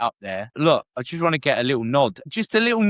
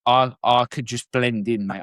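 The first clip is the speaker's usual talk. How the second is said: Scottish accent; 3 semitones lower than usual. Shown as a demonstration. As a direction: try blending in with a mock Scottish accent. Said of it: "Now you're mocking the Scottish".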